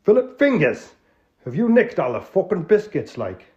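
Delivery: high, loud Geordie outrage; Geordie accent. Acted. Tony demanding where the biscuits went, Geordie. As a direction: Geordie host fuming over the tin. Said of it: "an authentic, uh, Northerner".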